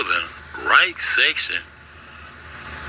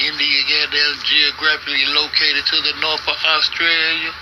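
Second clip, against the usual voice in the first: ordinary delivery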